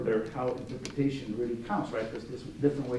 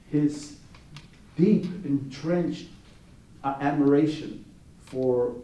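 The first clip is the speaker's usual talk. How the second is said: slow, weighty mock tribute; deliberate, spaced-out delivery; mock-solemn pronouncement; slower than usual. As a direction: draw out each word as if earnestly interpreting the art. Retold tongue-in-cheek interpretation for television.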